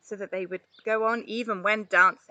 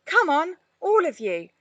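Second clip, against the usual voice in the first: chipping up; 7 semitones higher, 4 dB louder than usual. A narrator's reading. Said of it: "Ollie chipped up".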